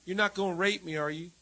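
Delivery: high startled shriek then worried question; a hammed-up scared landlady; frightened landlady. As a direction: squeal like a caught landlady. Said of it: "She goes".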